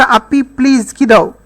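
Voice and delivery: calmly asking for the plate. Shown as a demonstration. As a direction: ask your sister gently for the plate. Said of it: "শান্তভাবে বলতেছে".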